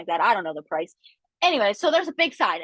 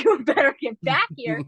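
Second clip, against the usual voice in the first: calling the dog; 3 dB louder than usual. Retold or imitated. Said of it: "And I was like".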